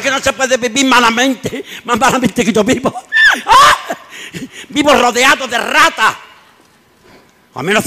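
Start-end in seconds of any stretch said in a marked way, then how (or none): 0.0-6.1 laughing retelling. Retold or imitated. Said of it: "repeats the shouted complaint".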